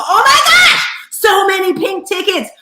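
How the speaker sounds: a loud, high thrilled gasp of joy; excited exclamation. Real, not acted. Host thrilled to see friends in room, excited cry. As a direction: burst out high and loud with delight.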